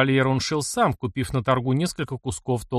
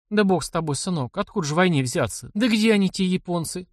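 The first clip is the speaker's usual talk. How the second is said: lightly higher village woman, dismissive disbelief; old aunt Glafira; 6 semitones higher than usual. Acted. Aunt waves away Mishka's talk of war, disbelieving. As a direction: brush off talk of war like a worried mother.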